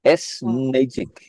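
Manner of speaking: "Essenagic" said slowly for the listener; slow model of "Essenagic"; careful foreign-word pronunciation. Shown as a demonstration. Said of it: "I am hoping I pronounced that right".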